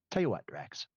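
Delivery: dry, understated delivery; matter-of-fact deadpan. Acted. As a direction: say it with no reaction at all.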